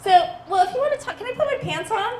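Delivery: high, loud, laughing request; laughing plea. Retold or imitated. Undressed client pleading with chatty waxer, laughing high. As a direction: beg through laughter. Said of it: "I'm like".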